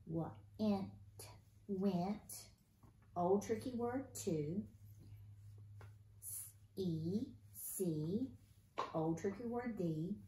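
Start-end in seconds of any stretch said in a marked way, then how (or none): 0.1-0.9 "Wa-ent" split into separate sounds; sounding out. Shown as a demonstration. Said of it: "we're gonna sound out". 6.2-7.3 "S-e" as two held sounds; phonics-style "S-e", hissed s then long e; sounding out. Shown as a demonstration. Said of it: "we're gonna sound out".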